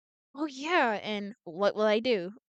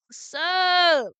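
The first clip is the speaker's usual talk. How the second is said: casual greeting voice; 8 semitones higher, 9 dB louder than usual. Acted. Character greeting.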